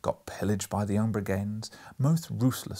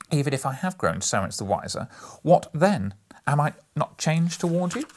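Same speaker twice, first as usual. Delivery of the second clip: heated protest; 5 semitones higher, 5 dB louder than usual. A narrator's reading. He argues back heatedly.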